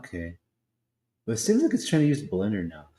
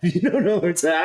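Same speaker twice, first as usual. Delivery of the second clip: laughing while talking, higher and louder; 7 semitones higher, 8 dB louder, faster than usual. Real, not acted. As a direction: laugh through the words. Laughs at the AI's answer.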